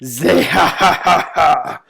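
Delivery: lightly imitating Blackbeard's laugh; a quick mock pirate laugh, half-hearted. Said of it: "the iconic Zehahaha".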